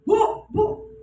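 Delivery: high, loud repeated call; retold shouting. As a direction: shout for the landlady from afar. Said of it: "Saya dengar teriakan ini". (teriakan memanggil dengan nada tinggi)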